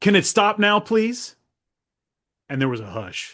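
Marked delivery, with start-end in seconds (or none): 0.0-1.4 firm, stern fatherly voice, raised pitch. Recounting what he said after his wife grabbed his arm: retelling in stern dad voice. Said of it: "stern dad voice".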